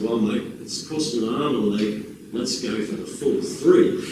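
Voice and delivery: imitating an Australian man on a long-distance call; Australian accent on the phone. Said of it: "excuse my phone Australian accent".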